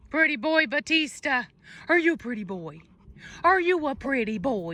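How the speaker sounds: sing-song coo at a pet. Real, not acted. Dog breeder cooing at her puppy in baby talk.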